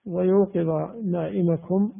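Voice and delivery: نائمكم with an "a" after the m, na'imakum; accusative reading. Shown as a demonstration. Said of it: "نائمكم هذه بالنصب وجها واحدا".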